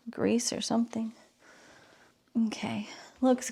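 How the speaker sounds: a careful whisper over the work. Real, not acted. Vlogger fitting turbo pieces, whispering carefully. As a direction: breathe the words while concentrating.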